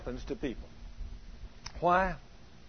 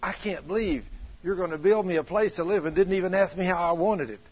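a touch of the wife's indignant complaint, pitched up; upset wife; 5 semitones higher, 3 dB louder than usual. Retold or imitated. Wife scolding husband on the way home, mild indignant complaint. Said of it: "She said".

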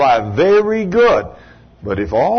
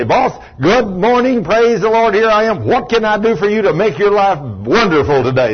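cheerful greeting; 6 semitones higher than usual. Retold or imitated. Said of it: "walk in and say".

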